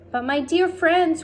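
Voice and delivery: high, loud, slow hearty call; cheerful. A narrator's reading. Old grasshopper cheers up his shaken friends, hearty call. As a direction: force some cheer into it. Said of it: "trying to be cheerful".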